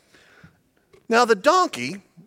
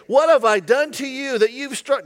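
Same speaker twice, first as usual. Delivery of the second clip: a touch of a whiny pleading voice; lightly whined complaint; whining donkey; 5 semitones higher than usual. Acted. Donkey whining at Balaam, mildly whiny. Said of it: "Had it been a female, she's whining".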